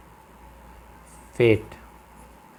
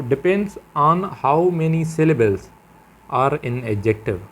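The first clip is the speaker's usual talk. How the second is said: slow emphatic rule; 3 semitones higher, 4 dB louder, much slower than usual. Shown as a demonstration. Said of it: "teacher stresses key rule".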